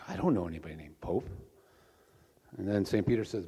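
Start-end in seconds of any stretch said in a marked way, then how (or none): 0.1-1.3 low, gentle Jesus. Acted. Jesus answering Saint Peter about the Pope, very gentle voice. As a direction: answer mildly and low, as a kindly comic Jesus. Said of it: "with a very gentle voice".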